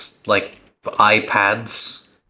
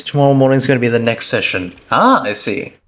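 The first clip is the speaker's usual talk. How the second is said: normal talking voice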